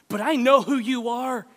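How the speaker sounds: firm, caring declaration; emphatic. Shown as a demonstration. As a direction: declare it warmly and firmly. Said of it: "I won't say it in a voice like".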